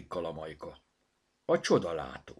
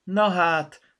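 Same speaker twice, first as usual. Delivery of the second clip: high, loud, laughing surprise; amused exclamation; 13 semitones higher, 14 dB louder than usual. A narrator's reading. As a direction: burst out delighted. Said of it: "nevetett fel". (felnevetve, hangosan)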